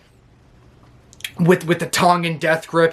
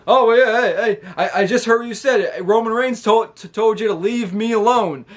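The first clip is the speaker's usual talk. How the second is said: raised, teasing taunt; higher, cocky jeer at the cousins; mock taunting L A Knight; 5 semitones higher than usual. L A Knight mocking the cousins, a raised cocky jeer.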